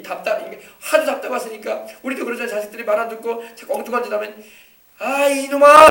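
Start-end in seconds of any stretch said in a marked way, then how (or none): 5.0-5.9 loud, high scolding yell; exasperated parent's shout. Retold or imitated. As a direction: yell at the child like a fed-up parent. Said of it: "하면서 막 그러잖아요".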